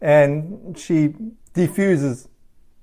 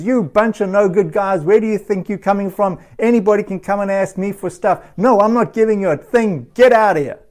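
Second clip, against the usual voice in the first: a touch raised, rising to a mild yell at the end; mock angry yell; 3 semitones higher than usual. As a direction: play the fool telling the men off, half-hearted. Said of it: "he responds angrily".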